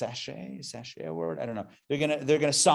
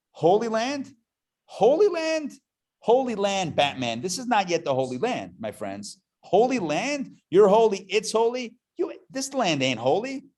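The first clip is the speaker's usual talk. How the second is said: mock sceptic; 6 semitones higher than usual. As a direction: play the doubter, scoffing at each word. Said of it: "I'll just play both sides".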